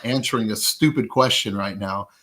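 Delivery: loud, exasperated rant; irritated. Real, not acted. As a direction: vent your annoyance at the pointless question. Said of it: "get irritated from that".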